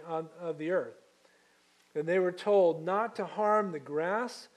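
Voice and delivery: measured, solemn Bible reading; scripture reading. Acted. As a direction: read it steadily to the congregation. Pastor reads scripture aloud.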